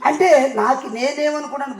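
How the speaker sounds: ordinary talk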